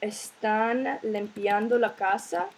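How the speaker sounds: slow, careful Spanish reading of "¿Están limpiando la casa?" with a rise on "casa"; clear, unhurried Spanish question. Shown as a demonstration. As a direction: say "¿Están limpiando la casa?" slowly, like a model sentence for learners. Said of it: "that I wanna say".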